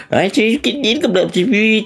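high mock call; imitating Yogimama. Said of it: "とか言ってんだけど".

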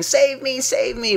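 high frantic cries of save me; panicked children calling from a burning window; kids screaming for help. Retold or imitated. Trapped orphans begging the fireman, high frantic scream.

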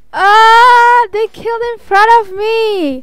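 high panicked yelling; panicked shout. Real, not acted. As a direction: blurt it out in shock. Witnessed kill in game.

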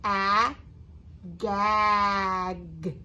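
each sound "n", "a" said separately, then blended into "nut". Shown as a demonstration. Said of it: "say the blend and then add".

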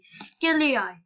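put-on a quick lilting Welsh accent on skilly; mock Welsh accent. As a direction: blurt it out in a playful Welsh accent. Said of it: "I just said that in Welsh".

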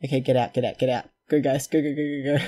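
loud hurried urging; urgent yelling. Real, not acted. Urging the colonists to get out, loud and hurried. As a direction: push them out the door, loud.

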